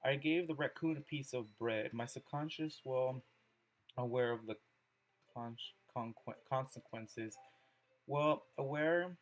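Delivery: measured reading aloud with pauses between phrases; poem reading. Acted. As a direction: read the poem out carefully, phrase by phrase. Reads Yuri's poem aloud.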